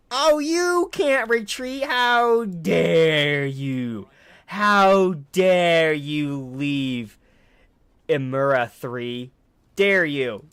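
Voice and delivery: slow, loud, high mock outrage; hammed-up indignant roar, dragged out; shaking with anger. Mock outrage at fleeing enemy.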